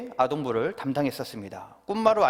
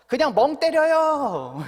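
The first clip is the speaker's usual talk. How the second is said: put-on child's flat answer; 8 semitones higher, 4 dB louder, slower than usual.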